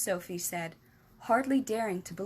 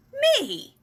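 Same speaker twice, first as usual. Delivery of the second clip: huge, much higher, louder outraged shout; 11 dB louder than usual. Acted. Giant answering Sophie's question, mighty outraged shout. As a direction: roar it so the jars rattle. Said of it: "shouted the giant".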